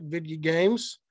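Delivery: lightly put-on cartoon voice for "video games"; a hint of impression, "video" squashed to "vidya"; Hank Hill. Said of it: "Hank Hill would say it".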